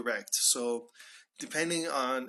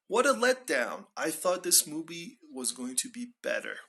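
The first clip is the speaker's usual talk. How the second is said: higher-pitched mock disappointment; acted letdown; 4 semitones higher than usual. Moviegoer reacts to a poor film, mildly let down. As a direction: play a mild movie letdown.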